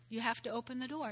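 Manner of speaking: quiet echo of the point; soft repeat. Real, not acted. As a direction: let it fall away gently.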